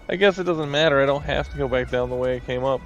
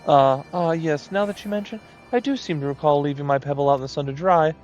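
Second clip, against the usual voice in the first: lightly raised, flustered artist moogle; a hint of a fussy moogle; 3 semitones higher than usual.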